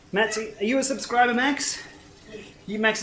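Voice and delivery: playful high voice. Pretend. Asking son in playful voice.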